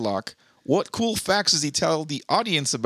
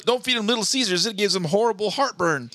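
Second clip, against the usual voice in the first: Steve Irwin; 7 semitones higher than usual. Acted. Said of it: "Steve Irwin would say something".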